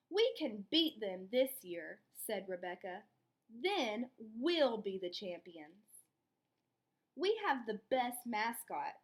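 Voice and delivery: lively read-aloud storytelling; expressive children's story narration. A narrator's reading. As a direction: read it to the class like a picture book. Teacher reads story aloud.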